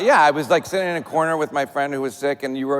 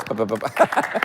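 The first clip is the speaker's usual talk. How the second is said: heartbeat imitation; 4 semitones lower than usual. Shown as a demonstration. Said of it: "Where your heart goes like this".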